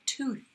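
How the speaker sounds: "tooth" ending in nothing but air; unvoiced th. Shown as a demonstration. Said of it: "nothing but air".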